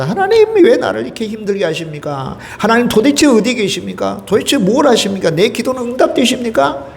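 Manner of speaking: high, pleading grumble at God; complaining prayer. Pretend. Voicing a complaining believer.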